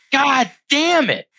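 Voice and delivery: high, slow drawn-out groaning curse; exasperated curse. Retold or imitated. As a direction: let the frustration stretch out. Exasperated at court delay.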